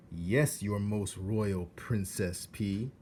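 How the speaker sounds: slow, grand flattering address; mock courtly. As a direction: pour on the royal flattery. Roscoe flatters.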